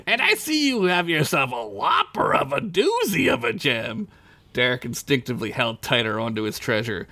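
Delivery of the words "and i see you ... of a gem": sly oily stranger voice; sly sewer creature. Acted. Sewer stranger eyes Derek's gem, sly. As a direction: tempt him with relish. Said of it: "sewer stranger speaks".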